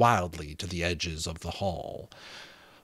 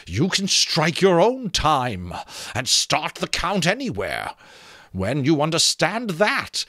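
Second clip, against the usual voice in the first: talking skull; 7 semitones higher, 5 dB louder than usual. Acted. Skull character voice.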